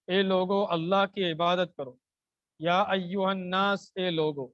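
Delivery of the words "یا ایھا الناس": slow chanted Quranic recitation; slow Arabic recitation. Shown as a demonstration. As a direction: recite slowly and fully, like tilawat. Teacher recites verse slowly.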